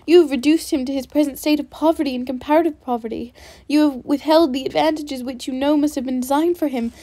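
heated, rising accusation; with energy. Acted. Elizabeth defending Wickham against Darcy, heated and energetic. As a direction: throw the charges at him one by one. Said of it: "cried Elizabeth with energy".

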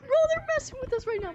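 loud high laughing shout. Real, not acted. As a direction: burst out laughing in shock. Laughing after ghost appeared.

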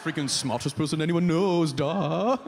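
put-on foreign coworker's accent; playful non-native accent; Hannah. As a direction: gush in an imitated foreign accent. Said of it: "woman who talked like that".

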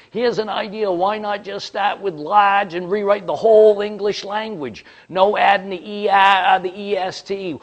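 mock the whole idea, fully wound up; sarcastic rant. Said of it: "He was all wound up".

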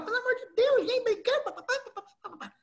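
high, laughing squeaky mock scolding; hammed-up high scold, laughing through it; mock angry Andréia. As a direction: play the flustered colleague, pitch way up. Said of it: "veio a Andréia brava lá".

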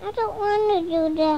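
upset, on the edge of tears; whiny crying. Real, not acted. Child upset by buzzing.

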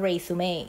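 resume said "RE-su-may", three syllables; pronunciation demo. Shown as a demonstration. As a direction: say resume as the noun, ending in "-may". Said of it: "อ่านว่า resume". (อ่าน resume ว่า "เรซูเม่")

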